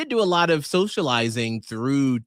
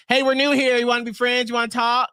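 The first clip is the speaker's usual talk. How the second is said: eager friendly husband; 8 semitones higher, faster than usual. Retold or imitated. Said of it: "He's just like".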